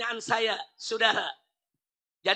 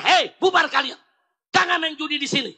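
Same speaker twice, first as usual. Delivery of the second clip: firm scolding; 3 semitones higher than usual. Retold or imitated. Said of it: "mesti tegas".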